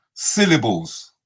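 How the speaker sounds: "Syllables" said slowly, sounded out; careful syllables. Shown as a demonstration. Host sounding out "Syllables" carefully. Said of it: "hold on a second".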